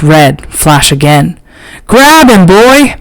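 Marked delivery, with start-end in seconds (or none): 1.9-3.0 yell. A narrator's reading. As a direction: bark the order at your dog. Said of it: "Rico yells".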